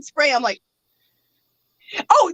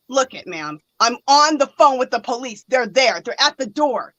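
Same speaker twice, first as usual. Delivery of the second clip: much lower, steady dispatcher voice; calm dispatcher; 4 semitones lower than usual. Retold or imitated. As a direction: talk her down like a firm operator. Dispatcher reassuring the caller.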